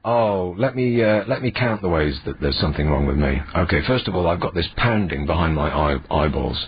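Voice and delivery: hoarse, sore-throat voice; rough like a dog's tongue; rasping voice. Real, not acted. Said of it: "have you got a bit of a rasping voice?".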